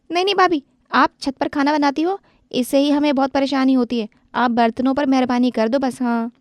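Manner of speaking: put-on young girl protesting to her bhabhi; protesting sister-in-law. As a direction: beg her to stop.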